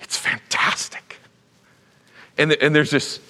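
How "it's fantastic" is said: casual flattery. Retold or imitated. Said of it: "He says".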